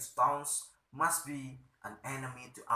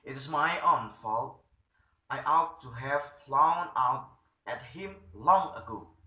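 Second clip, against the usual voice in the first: self-reproach; 7 dB louder than usual. Acted. Stockmann berating himself.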